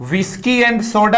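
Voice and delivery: slow, teacher laying out "whiskey and soda"; slow model reading. Shown as a demonstration. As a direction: read slowly for students. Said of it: "जैसे मैं विस्की और सोडा की बात करूं". (धीमा वाचन)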